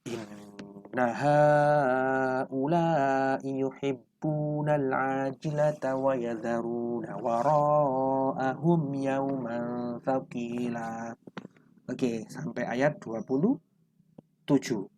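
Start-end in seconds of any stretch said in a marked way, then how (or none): 0.1-11.1 slow, measured chanted recitation; Quran recitation. Acted. Teacher recites the verses to students, slow chant. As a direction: recite the verse slowly and evenly.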